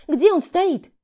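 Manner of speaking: high, loud, eager question; curious exclamation. Acted. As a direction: blurt it out, dying to know. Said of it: "с любопытством воскликнула я".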